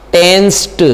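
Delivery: टेंस्ड ending on a crisp t sound. Shown as a demonstration. Teacher to students, modelling the ed ending: crisp t. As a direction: finish टेंस्ड with a sharp t. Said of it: "ये क्या बन जाएगा आपका?".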